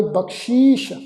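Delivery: ਬਖਸ਼ੀਸ਼ with sh in both places; dotted sh sounds. Shown as a demonstration. Teacher models dotted letters, ਬਖਸ਼ੀਸ਼ with two sh sounds. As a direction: make both sibilants of ਬਖਸ਼ੀਸ਼ a clear sh. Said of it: "ਬਿੰਦੀ ਲਗਾ ਕੇ ਪਾਠ ਉਚਾਰਨ ਕਰਾਂਗੇ".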